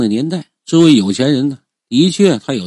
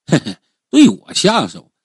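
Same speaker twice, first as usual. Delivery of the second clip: incredulous heh-heh into a mocking question; angry scornful laugh. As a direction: laugh off the threat with anger underneath. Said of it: "怒极反笑". (怒极反笑，嘲讽地反问)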